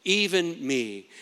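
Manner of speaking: slow "Even me", with weight on "me"; drawn-out stress on "me"; emphasis on me. Acted. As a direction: lean deliberately on the word "me". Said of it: "There's an emphasis on the word".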